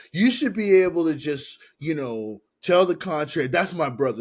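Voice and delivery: loud, high, indignant mock protest; heated retold argument. Logan pleading brotherhood over a contract, imitated indignation. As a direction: argue back as the offended brother.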